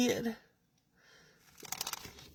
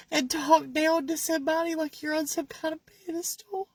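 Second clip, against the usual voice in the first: rising anger, louder and higher; angry; 4 semitones higher, 4 dB louder than usual. Real, not acted. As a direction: let the frustration build. Angry rant at critics.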